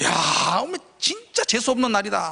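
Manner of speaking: put-on fed-up, exasperated, dumbfounded outburst of disbelief. Retelling being hit again by a player: imitating his own dumbfounded exasperation. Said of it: "너무 황당해가지고".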